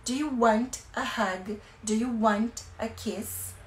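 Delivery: slow gentle offers. Shown as a demonstration. Teacher offering a child hug and kiss, slow gentle voice. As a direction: offer comfort slowly and kindly. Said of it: "Você pode falar".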